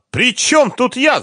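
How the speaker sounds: high, loud cry; shouting. A narrator's reading. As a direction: scream it back at him. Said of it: "закричала она". (Маша кричит на Харькова в ответ)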